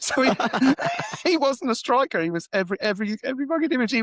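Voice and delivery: laughing while talking. Real, not acted. Cracking up at his punchline.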